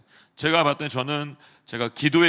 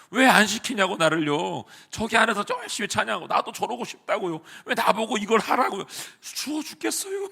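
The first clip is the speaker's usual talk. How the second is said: higher-pitched whining protest to God; angry complaint; 5 semitones higher than usual. Retold or imitated. Young staff member complaining to God in the cold, mock angry whine. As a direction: complain like a sulky child, rising to a high wail. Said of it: "하나님한테 이제 막 화를 내는 거죠".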